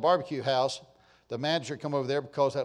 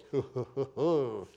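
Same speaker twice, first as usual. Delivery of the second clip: playful hooting; 3 semitones lower, 4 dB quieter than usual. Real, not acted. Teasing about a trip to Italy.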